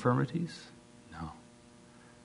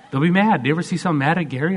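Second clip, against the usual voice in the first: laughing; 6 semitones higher, 7 dB louder, much faster than usual. Real, not acted. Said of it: "laughing at angry people".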